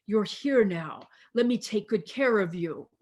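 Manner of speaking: gently voiced motherly comfort, softening on "sweetheart"; lightly acted, unhurried nurturing voice; tender reassurance. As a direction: soothe them like a held child. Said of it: "divine feminine holding us and reminding".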